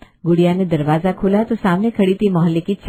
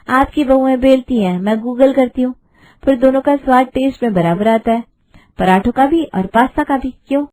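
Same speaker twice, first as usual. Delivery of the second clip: cheeky retort; 4 semitones higher than usual. Acted. Bride answering the aunty's paratha jibe with a cheeky comeback. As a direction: fire back with a grin you can hear.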